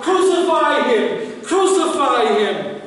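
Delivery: preacher echoing the crowd's cry; retold crowd yell. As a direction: call it out high, then let it fall. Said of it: "crowds continue to yell out".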